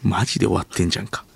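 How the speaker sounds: a hint of put-on Tokyo accent; forced standard Japanese. Actor rehearsing an accusation, careful Tokyo accent. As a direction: run lines avoiding Kansai intonation. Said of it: "関西弁で喋らないようブツブツとセリフを復習する".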